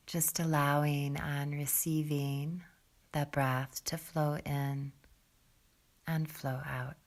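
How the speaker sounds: calm, soft meditation voice with long pauses; guided meditation. Real, not acted. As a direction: settle them gently into the breath, low and unhurried. Leads a seated breathing meditation.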